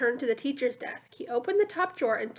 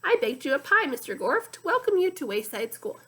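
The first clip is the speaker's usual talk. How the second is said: sloshy muddy voice; 3 semitones higher, 3 dB louder than usual. Acted. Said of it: "like two boots sloshing through the mud".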